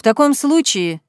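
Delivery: loudly. Acted. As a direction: announce it to the crowd. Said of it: "сказал он громко".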